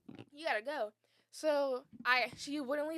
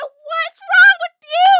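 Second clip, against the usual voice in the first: high, loud and very slow; shocked friend; 21 dB louder, much slower than usual. Retold or imitated. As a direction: ask as if stunned by her. Friend stands up and asks.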